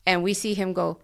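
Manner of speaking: ordinary talk, nothing marked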